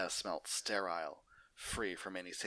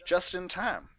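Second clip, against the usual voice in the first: much higher, louder cowpony greeting; Applejack voice; 12 semitones higher, 9 dB louder than usual. Acted. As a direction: greet him as the sister. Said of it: "greeted Applejack".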